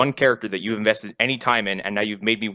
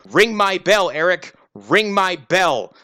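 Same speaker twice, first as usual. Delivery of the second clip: raised, higher-pitched imitated yell; mock yelling; 6 semitones higher, 4 dB louder, slower than usual. Host imitating drunk character taunting Eric, mock yelling. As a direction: holler it like a character mid-tantrum. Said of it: "and then just starts yelling".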